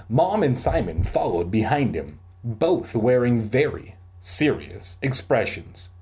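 animated storybook reading with voiced dialogue; story narration. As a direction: read it out like a lively audiobook. Reads a story aloud.

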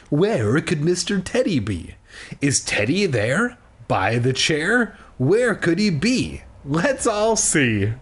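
exaggerated singsong storybook voice; mock a read-along for little kids, lilting questions; children's book reading. Shown as a demonstration. Mocking a picture book for small children, singsong reading. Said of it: "like, children's".

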